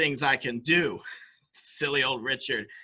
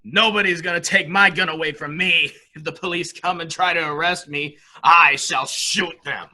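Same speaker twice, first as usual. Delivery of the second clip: defiant threat; 3 semitones higher, 5 dB louder than usual. Acted. Threatening police with gun.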